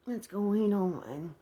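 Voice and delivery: a guarded mother at the door; mother asking slowly who knocks; suspicious mom. Retold or imitated.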